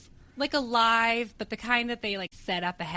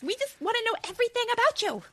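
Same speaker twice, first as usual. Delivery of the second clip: much higher, fast, otherworldly sing-song; mock eerie voice; much faster than usual. Joking about the song, in a high eerie put-on voice. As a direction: voice the creepy song like a spirit. Voicing the Door's song line.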